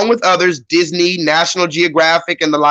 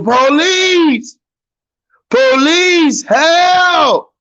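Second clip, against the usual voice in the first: mock cry for police; 9 semitones higher, much slower than usual. Streamer mimicking the yelling to answer chat, mock cry for help. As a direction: echo the yelling in a playful, higher mock cry. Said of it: "Did you ask who was yelling?".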